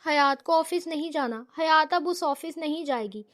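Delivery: ordinary delivery, nothing marked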